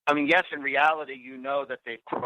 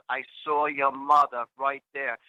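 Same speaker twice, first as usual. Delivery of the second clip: put-on Boston accent. Cousin swearing she saw his mother, Boston accent. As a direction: imitate a Boston cousin, drawn out. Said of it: "in her Boston accent".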